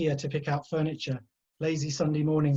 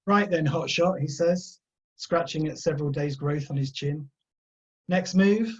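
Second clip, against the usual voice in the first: gruff detective; 4 dB louder than usual. Acted. Gruff detective tests Tyler.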